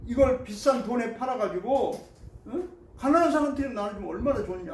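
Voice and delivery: lively, grumbling retelling of angry disciples; preacher voicing disciples scolding the woman's waste, mildly indignant; mock indignant disciples. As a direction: act out the disciples' annoyed complaint, half-playful. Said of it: "막 이러면서 화를 내는 거예요".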